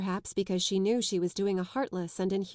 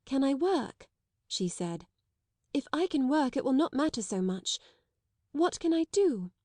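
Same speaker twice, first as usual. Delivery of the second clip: eager relief; 6 semitones higher than usual. A narrator's reading.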